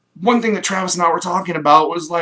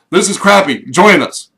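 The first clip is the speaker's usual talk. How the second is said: mock gloomy invitation; 8 dB louder than usual. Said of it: "We're like".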